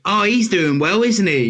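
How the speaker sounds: high, sing-song mock praise; patronising onlooker. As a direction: imitate someone talking condescendingly over your head. Imitating condescending talk to companion.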